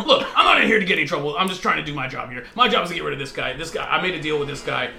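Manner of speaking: fast talking. Acted. Demon explaining why he's here, talking fast. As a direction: rattle out a hurried self-defence. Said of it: "through his fast talking".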